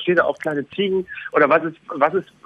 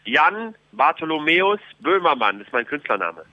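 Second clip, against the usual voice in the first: royal proclamation. Pretend. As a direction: proclaim the king's will to the people. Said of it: "Hier spricht Ministerpräsident".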